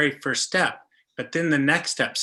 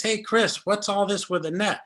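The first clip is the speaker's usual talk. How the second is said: higher-pitched mock puzzled question; imitating trapped friend; 6 semitones higher than usual. Friend caught in a net questions her trapper, imitated higher.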